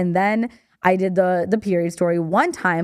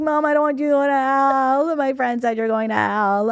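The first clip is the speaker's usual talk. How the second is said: higher, whiny imitation of a tearful kid; mock crying child; 4 semitones higher than usual. Imagined daughter comes home to mom, mock-tearful plea. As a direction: plead to mom in a put-on weepy voice. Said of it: "She's, like, crying".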